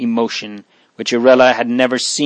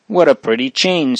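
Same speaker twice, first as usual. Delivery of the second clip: smiling brightly; 3 semitones higher than usual. Acted. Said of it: "smiling brightly at the little fellow".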